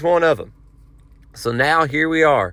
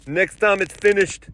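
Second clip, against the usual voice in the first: higher, put-on voice of a man in line; New Yorker guy voice; 4 semitones higher than usual. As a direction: imitate the impatient guy behind you. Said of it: "I can only do the voice one way".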